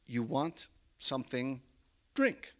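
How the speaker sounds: put-on careful Hungarian-accented English. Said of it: "in English".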